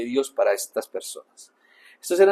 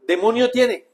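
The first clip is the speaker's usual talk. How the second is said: loud, scornful accusation of "Demonio tiene"; accusing crowd; 8 semitones higher, 6 dB louder than usual. Retold or imitated. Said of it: "la gente lo veía y ¿qué decía?".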